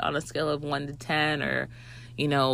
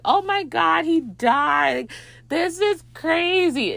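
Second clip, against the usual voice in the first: very high mock freak-out; hammed-up alarm, stretched out; panicked; 12 semitones higher, slower than usual. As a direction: imitate a shocked group of friends. Friends think he has died.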